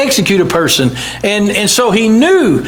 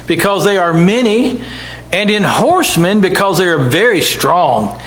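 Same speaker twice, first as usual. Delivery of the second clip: measured preacher's reading voice; scripture reading. Acted. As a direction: read it out like holy writ. Preacher reads Isaiah aloud.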